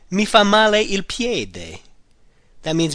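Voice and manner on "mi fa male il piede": slow, careful model phrase. Shown as a demonstration. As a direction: lay it out for learners.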